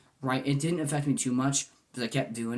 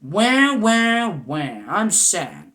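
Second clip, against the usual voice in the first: higher, louder fake wailing wah, slowing down at the end; mock crying; 9 semitones higher, 11 dB louder, much slower than usual. Mocking a mopey mess whining to people, fake wailing. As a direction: ham up a mopey crybaby wail. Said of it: "being a mopey mess, being all".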